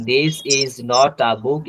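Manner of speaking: drawn out word by word; stretched classroom demonstration; very slow model sentence. Shown as a demonstration. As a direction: spell the sentence out slowly for learners. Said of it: "teacher models English sentence".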